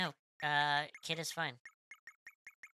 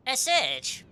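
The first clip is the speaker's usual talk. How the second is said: attempted Australian accent, lively swooping pitch; Kid; 10 semitones higher, 4 dB louder, much slower than usual. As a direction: put on a perky, makeshift Australian accent. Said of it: "if I could do an Elstarian accent".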